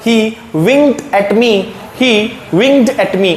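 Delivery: very slow, each word of 'He winked at me' spaced out; slow repeat-after-me. Shown as a demonstration. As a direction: model it slowly for students to echo. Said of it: "बोलो मेरे साथ".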